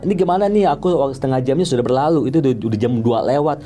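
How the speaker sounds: retold scolding that starts high; marah-marah. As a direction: complain crossly, easing down from a high start. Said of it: "Aku udah marah-marah ya". (menirukan omelan kesal)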